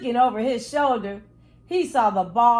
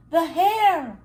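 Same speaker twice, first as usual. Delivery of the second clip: louder, higher startled cry; alarmed cry; 6 semitones higher, 4 dB louder than usual. A narrator's reading. Toby hearing the hare behind him, alarmed. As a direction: blurt it in sudden alarm.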